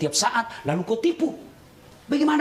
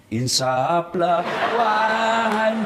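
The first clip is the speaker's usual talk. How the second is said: mock solemn plea; much slower than usual. Mock preachy plea to husband.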